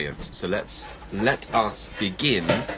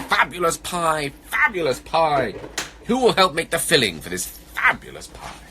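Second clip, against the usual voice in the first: higher, singsong storybook plea; calling bear; 7 semitones higher, 4 dB louder than usual. Acted. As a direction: call out hopefully as a bear. Bear makes one more calling try.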